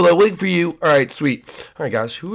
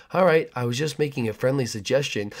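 creepy neighbor; 5 dB quieter than usual. Acted.

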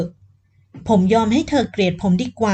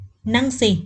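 stern voice; much slower than usual. Acted. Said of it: "พูดกับฝันด้วยเสียงเข้ม".

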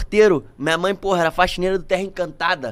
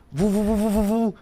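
imitated whoosh; 5 dB quieter than usual. Mimics himself running after driver.

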